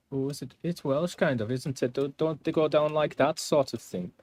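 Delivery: high-pitched, lilting attempt at Welsh; shaky-attempt Welsh accent. Shown as a demonstration. Streamer trying out an accent they can't do, amateur Welsh. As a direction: have a go at a bad Welsh accent. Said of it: "I can't do a Welsh accent".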